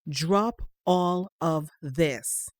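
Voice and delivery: very slow, heavy command; slow firm order. Acted. Mother ordering her son to stop searching, slow and firm. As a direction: lay each word down like a final ruling.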